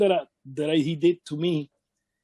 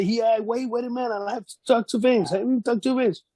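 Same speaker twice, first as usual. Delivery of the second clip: higher, teasing stall; mock stalling Owen; 8 semitones higher, faster than usual. Owen stalling Lex on purpose, mock casual. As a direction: drag it out to keep him waiting.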